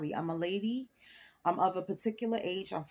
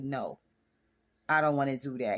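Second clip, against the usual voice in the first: sexy voice; 5 semitones lower than usual. Retold or imitated. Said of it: "I can't put my sexy voice on".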